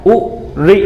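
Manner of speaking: उ and री each said briefly; one quick beat each on उ and री; short vowels. Shown as a demonstration. Teacher repeating short vowels to students, उ and री kept short. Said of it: "जिनके उच्चारण में कम समय लगता हो".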